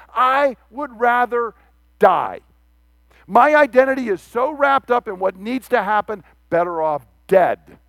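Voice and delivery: lightly acted, weighty declaration of a death wish; impassioned Jonah quote. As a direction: spell out the bitter complaint with heavy pauses. Voicing Jonah's angry death wish.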